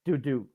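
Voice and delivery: two light falling "doo" notes; bouncing sound. Retold or imitated. Flicking berries across the picnic table, playful bounce noise. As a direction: imitate a berry bouncing twice.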